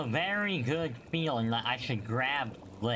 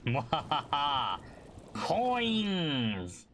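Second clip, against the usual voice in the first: mad scientist; much slower than usual. Pretend. Gloating over collected coins.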